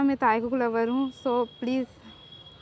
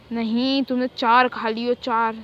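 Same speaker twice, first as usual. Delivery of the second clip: scolding; 5 dB louder, slower than usual. Acted. Scolding wife refusing more ice cream.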